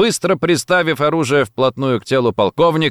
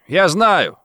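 loud and higher, assertive; 7 semitones higher, 4 dB louder than usual. A narrator's reading. Gomikawa asserts himself to the agents, loud. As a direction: announce it firmly. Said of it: "громко сказал Гомикава".

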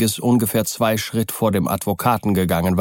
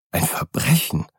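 cried out; 5 semitones higher than usual. Acted. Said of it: "rief der Advokat".

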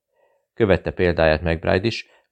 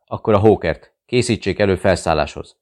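forceful order; 2 semitones higher, 4 dB louder than usual. Acted. Zilics demanding aircraft.

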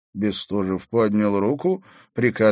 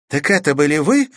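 shocked; 9 semitones higher, 8 dB louder than usual. Acted. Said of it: "потрясённо воскликнула Катерина".

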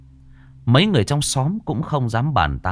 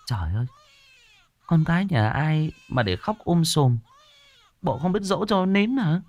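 annoyed outburst; 9 semitones higher than usual. A narrator's reading. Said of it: "bực mình la lên".

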